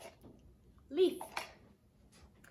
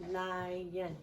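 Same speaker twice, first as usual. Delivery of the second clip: "Lion" in two softer, separate beats; split into syllables; 4 dB quieter than usual. Shown as a demonstration. Teacher confirming two syllables, "Lion" split in two. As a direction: repeat "Lion" slowly by syllable. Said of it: "Two syllables".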